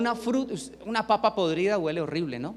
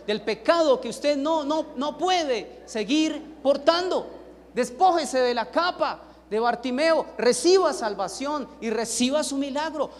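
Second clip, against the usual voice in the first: preach; 4 semitones higher, 3 dB louder than usual. Real, not acted. Preacher exhorts at full force.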